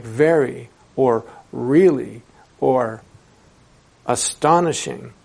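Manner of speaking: slow stress on "very", "really" and "astonishing"; weight "very", "really", "astonishing", each one slowly; emphatic intonation. Shown as a demonstration. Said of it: "what did I do when I just said it? I used intonation".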